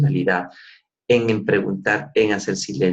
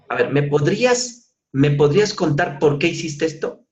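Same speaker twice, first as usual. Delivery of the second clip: raised pitch, sharp interrogating question; exaggerated threatening tone; 5 semitones higher than usual. Shown as a demonstration. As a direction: demand it like an accusation. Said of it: "voy a exagerar". (pregunta amenazante exagerada)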